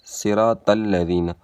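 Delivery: صراط الذین as "siraa-tal-lazeena"; thin "tal" in صراط الذین; mistaken light t. Shown as a demonstration. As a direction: say صراط with light t, not heavy "tol". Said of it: "تا کو تا پڑھتے ہیں".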